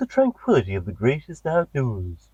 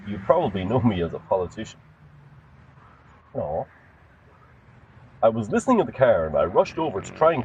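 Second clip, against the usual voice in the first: lower, quick, smooth politician's voice; 6 semitones lower than usual. Acted. Politician pitching in to the host, low and smooth. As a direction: glide in like a scheming politician.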